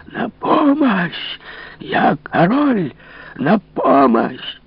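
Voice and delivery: очень высокий протяжный вопль отчаяния; кричи, растягивая, из последних сил; яростный зов на помощь. Acted. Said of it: "звал, исходя бессильной яростью". (запертый король зовёт на помощь, протяжно и очень высоко)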